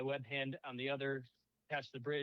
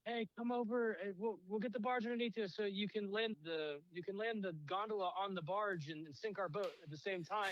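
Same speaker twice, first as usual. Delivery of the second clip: higher, mocking boatman voice; pitched-up mock offer of help; retold bargemen; 5 semitones higher than usual. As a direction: lightly voice a helpful bargeman calling up. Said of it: "right after those two gentlemen".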